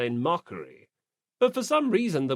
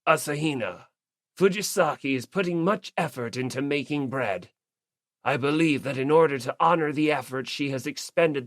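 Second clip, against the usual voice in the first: steady, weighty warrior voice; grave declaration. Acted. Ogami gently overruling her friend, grave and dignified. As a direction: lay it down with dignity. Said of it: "Ogami declared with gravitas".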